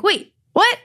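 delighted squeal of disbelief; excited disbelief. Retold or imitated. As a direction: leap up in happy surprise.

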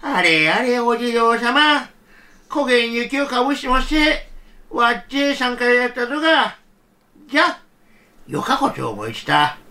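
put-on an old man fussing kindly over snowy statues; a hint of a tender grandfather. Grandfather speaks to the jizo.

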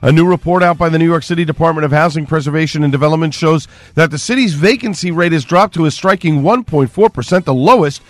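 steady, even radio newscast; radio news bulletin voice; news read. Real, not acted. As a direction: deliver the local headlines as an anchor. Reads local news.

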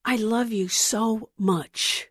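slow, soft, tender declaration; Jesus telling the viewer gently he loves them, slow and soft; Jesus speaking tenderly. Acted. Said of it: "is what Jesus tells you".

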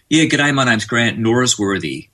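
slow, careful American accent with the R sounded; Australian switching on an American accent to be understood; put-on American accent. Shown as a demonstration. Australian introducing himself to Americans in a put-on American accent. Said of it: "I have to put the R in there".

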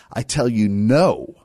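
firm refusal, weight on "no"; emphatic. Acted. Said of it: "Emphatic, he says it".

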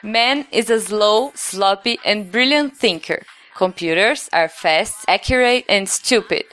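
slow, careful Portuguese-accented English; Brazilian English. Shown as a demonstration. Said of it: "Treinar meu English".

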